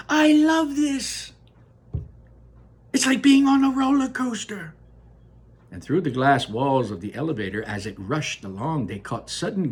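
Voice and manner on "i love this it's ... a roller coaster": shouted with delight. Acted. Charlie loving the wild ride, shouting with delight. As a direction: yell out your joy on the ride. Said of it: "Charlie shouted".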